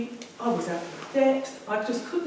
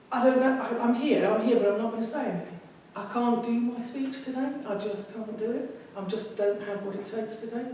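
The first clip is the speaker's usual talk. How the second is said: anxious inner voice; 3 semitones higher than usual. Retold or imitated. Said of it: "I thought".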